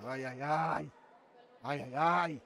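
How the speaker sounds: low, soft "ai ai ai"; quiet, low lament; muted worried groan. Real, not acted. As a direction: groan under your breath at the game. Worried reaction to the match.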